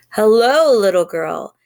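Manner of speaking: low, growling wolf greeting; deep growly voice. A narrator's reading. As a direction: growl it like a big bad wolf. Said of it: "said a deep, growly voice".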